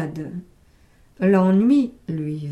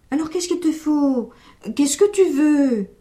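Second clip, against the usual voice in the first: put-on exasperated old man; 4 semitones higher, 3 dB louder than usual.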